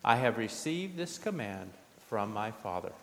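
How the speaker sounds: measured, solemn scripture reading; gospel reading. Acted. Pastor reading the gospel lesson aloud, solemn. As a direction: proclaim the gospel to the congregation.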